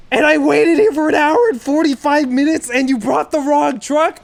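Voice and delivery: loud, high, indignant rant; the long wait spat back at him; angry outburst. Retold or imitated. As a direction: let him have it, outraged. Ranting at tow driver.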